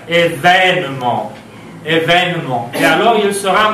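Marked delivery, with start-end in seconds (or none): 0.1-1.3 événement with its second E open, like è. Shown as a demonstration. Teacher showing learners the new pronunciation, open E in événement. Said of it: "«et» ouvert". 1.8-2.7 second E of événement opened to è. Shown as a demonstration. Teacher repeating the word for learners, open E in événement. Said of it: "«et» ouvert".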